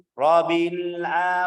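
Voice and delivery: slow Rabbil A; wrong reading. Shown as a demonstration. Teacher drills Rabbil slowly. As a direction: Rabbil A read slowly to point at its b. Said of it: "Rabbi tidak ada tasydid".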